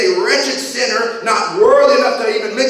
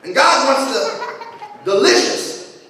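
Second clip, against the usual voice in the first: laughing; 3 semitones higher than usual. Real, not acted. Laughing through the bacon joke.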